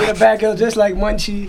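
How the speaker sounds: laughing tease. Acted. Teasing friend's old nickname.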